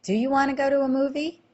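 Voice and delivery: rising question tune on "movie?"; question rise. Shown as a demonstration. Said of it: "we would say".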